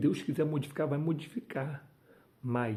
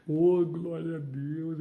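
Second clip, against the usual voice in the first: overwhelmed praise; 4 semitones higher, 4 dB louder, slower than usual. Real, not acted. Preacher overcome by presence.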